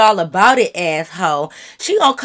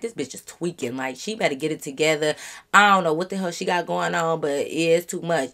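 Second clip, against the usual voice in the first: much softer, lower grumble to herself; inner muttering; 6 semitones lower, 7 dB quieter than usual. Retold or imitated. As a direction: mutter it under your breath. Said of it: "I'm like".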